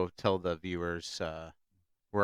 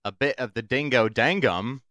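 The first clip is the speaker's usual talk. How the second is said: put-on Australian accent; 4 semitones higher, 5 dB louder than usual. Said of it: "never heard it with an Australian accent".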